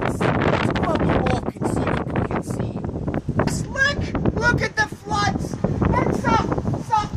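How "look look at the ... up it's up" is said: high, excited pointing out of the floods; excited alarm. Acted. Reporter spotting floods for the viewers, excited alarm. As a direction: exclaim in a high, urgent voice.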